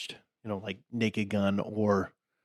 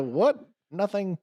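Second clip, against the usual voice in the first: mock sketch voice; 10 semitones higher, slower than usual. Quoting sketch characters.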